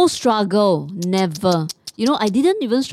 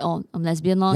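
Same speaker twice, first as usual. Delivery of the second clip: plain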